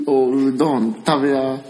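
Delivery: slow, emphatic おうどん食べや; a mum stressing every word; Osaka mum. Retold or imitated. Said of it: "おかん". (強調するおかんの声)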